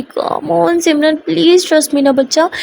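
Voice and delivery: slow, drawn-out affectionate appeal; pleading coax. Acted. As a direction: coax a doubting partner with stretched words. Begging partner for trust.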